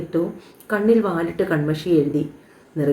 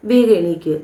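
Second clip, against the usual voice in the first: louder, insistent push; urging; 6 dB louder than usual. Acted. Wife urging her husband to get up, louder and insistent. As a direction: hurry him up out of bed, louder.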